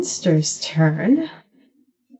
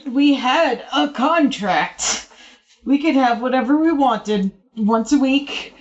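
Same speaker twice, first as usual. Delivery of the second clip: pleading monster voice. Acted.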